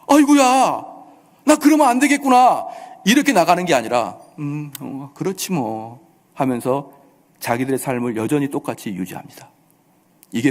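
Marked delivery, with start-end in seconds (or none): 0.1-2.7 high-pitched cry of sudden realisation; acted alarm. Preacher acting a listener shaken by judgment, acted alarm. 4.4-6.0 low, soft, noncommittal mumble; acted indifference. Preacher acting a hearer who won't change, acted indifference.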